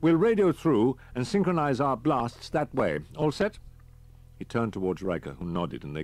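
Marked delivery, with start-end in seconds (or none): 0.0-3.6 a lightly voiced, brisk army captain; captain's voice. A narrator's reading. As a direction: give the orders like a calm officer.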